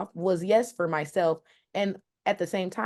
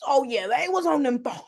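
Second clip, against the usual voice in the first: raised, lightly country Southern voice; mock Southern country accent; 6 semitones higher than usual. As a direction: lay on the down-home Southern talk. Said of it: "Southern type of accent".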